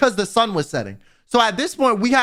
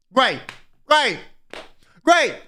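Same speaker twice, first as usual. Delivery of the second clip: sarcastic exasperation; 5 semitones higher, slower than usual. Retold or imitated. Sarcastic reaction to bleeding hand.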